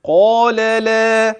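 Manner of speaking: قال لا chanted slowly, thick ق and thin ل; heavy qāf, light lām. Shown as a demonstration. Teacher demonstrating heavy ق and light ل in قال لا. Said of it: "إذن هكذا".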